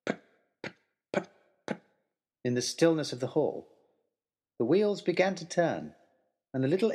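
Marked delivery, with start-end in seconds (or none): 0.1-1.8 soft puffing put-put of a toy steam engine; engine put-put noise. A narrator's reading. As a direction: imitate the little engine chugging to life. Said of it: "with a clear".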